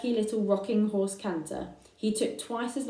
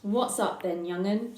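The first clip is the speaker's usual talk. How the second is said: put-on lightly croaky old ewe; Ma's croaky voice. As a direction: croak it, a touch hoarse. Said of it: "she croaked".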